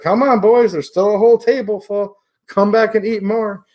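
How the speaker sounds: imitating a hearty call to the boys. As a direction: call the boys back to the table. Retold host calling diners back.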